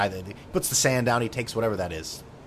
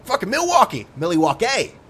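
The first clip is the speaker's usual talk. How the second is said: very high, loud squealing fans; mock fans screaming back at the band, hammed-up; crowd frenzy; 6 dB louder than usual. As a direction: shriek like thrilled hometown fans. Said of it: "everyone's like".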